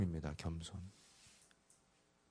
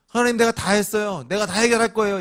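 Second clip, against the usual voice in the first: proud prayer; 8 semitones higher, 7 dB louder than usual. Retold or imitated. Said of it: "나의 기도가 하나님께".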